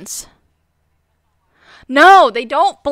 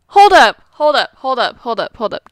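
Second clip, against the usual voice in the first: shout fading out; 2 semitones lower, 3 dB louder than usual. Acted. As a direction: call it out then trail away. Repeated, fading call.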